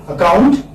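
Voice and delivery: „Account" said with stress on -COUNT, a weak ac-; ac-COUNT, hit the second syllable. Shown as a demonstration. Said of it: "the second, uh, syllable is stress".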